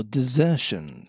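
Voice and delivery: "desertion" given particular emphasis; stress on "desertion". A narrator's reading. Silver needling the captain, stressing "desertion". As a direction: lean pointedly on "desertion". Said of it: "laying a particular emphasis on the word desertion".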